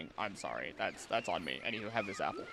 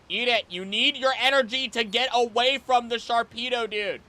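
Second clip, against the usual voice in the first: higher, louder insistence; urgent pleading; 10 semitones higher, 6 dB louder than usual. Real, not acted. Streamer begging a fish to eat, urgent high pleading. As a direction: push the creature to eat, quickly.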